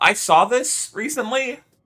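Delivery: voice cracking up very high. Player going through rewards in a game, voice cracking. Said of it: "Voice crack, voice crack, voice crack".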